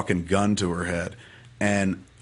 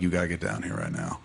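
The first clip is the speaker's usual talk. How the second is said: retold brother's low-key, softer urging; grave news, retold; 3 semitones lower, 6 dB quieter than usual. Brother calling about Dad in hospital, grave and subdued. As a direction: say it soft and subdued, as the bearer of bad news. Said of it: "you could hear it in his voice".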